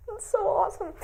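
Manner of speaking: That's so awesome, squealed high; That's so awesome at the top of the voice; excited. Real, not acted. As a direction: gush it out, thrilled. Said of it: "repeated exclamation".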